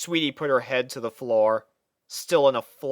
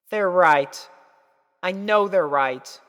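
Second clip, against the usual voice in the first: defeated; 6 semitones higher, 4 dB louder, slower than usual. A narrator's reading. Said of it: "sighed in defeat".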